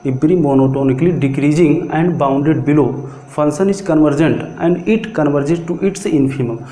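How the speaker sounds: very slow, word by word, for note-taking; slow dictation. Shown as a demonstration. Teacher dictating a theorem to the class, very slow and deliberate. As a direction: spell it out slowly so students can write.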